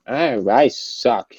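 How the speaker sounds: very slow, dragged-out mock whine; mopey self-pity. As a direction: drawl it like a defeated loser. Mocking a weak player's words.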